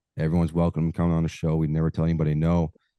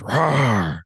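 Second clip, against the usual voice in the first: mock roar; 4 semitones higher than usual. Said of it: "starts yelling".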